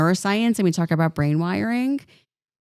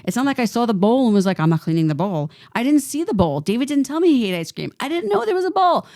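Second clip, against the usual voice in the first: high-pitched, exasperated mock yelling, rising as it goes; retold screaming; 5 semitones higher than usual. Teen defending herself to her mother over an unseen bowl, retold screaming. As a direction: protest in a raised, reenacted outburst. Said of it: "I started screaming at the top of my lungs".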